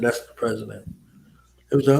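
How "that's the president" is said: a whispered "That's the president"; whispered aside. Retold or imitated. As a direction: hush it like a secret. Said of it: "I said".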